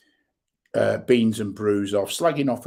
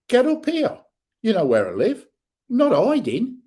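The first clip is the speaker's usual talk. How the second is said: high and loud, daring; defiant shout; 11 semitones higher, 4 dB louder than usual. Real, not acted. Vlogger daring troll to come, shouting. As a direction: call him out to come up.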